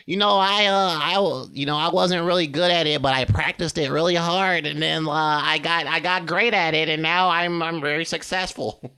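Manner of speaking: high, loud dopey voice; stupid voice. Acted. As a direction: sound as dumb as possible while sounding sincere. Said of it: "you say it in a stupid voice".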